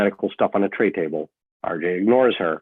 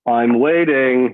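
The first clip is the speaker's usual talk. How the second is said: impatient prod; 5 semitones higher, 10 dB louder, much slower than usual. Acted. RJ presses her to talk.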